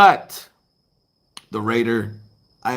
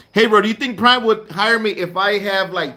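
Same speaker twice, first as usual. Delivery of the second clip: laughing mock question; 2 semitones higher than usual. Mocking question from student.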